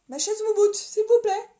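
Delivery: annonce plus aiguë et plus forte, façon roulement de tambour; présenter la chaise comme une star; présentation triomphale. Acted. Presents her chair like a prize. (présentation théâtrale de la chaise)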